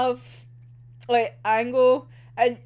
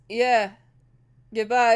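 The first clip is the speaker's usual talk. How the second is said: tearful goodbye; 4 dB louder than usual. Acted. Voicing Oda's farewell.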